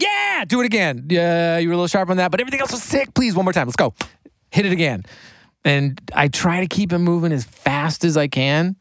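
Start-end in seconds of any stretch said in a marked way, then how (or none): 0.0-5.0 higher, pumped coaching of the singer; hyped producer. Retold or imitated. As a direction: fire the singer up for one more take. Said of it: "a vocal session with me is a whole lot of".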